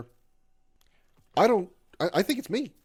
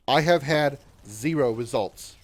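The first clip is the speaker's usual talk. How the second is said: zero results spelled out slowly, each word weighted; slow emphatic stress; 2 semitones higher, 4 dB louder, slower than usual. Real, not acted. Streamer tells chat his dating app results, slow and emphatic. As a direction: lean hard on had zero results. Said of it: "And I'm going to say this".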